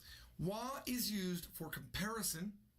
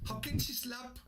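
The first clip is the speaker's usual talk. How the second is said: meme quote; 6 semitones higher, 5 dB louder than usual. Retold or imitated. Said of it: "I saw that video on the internet".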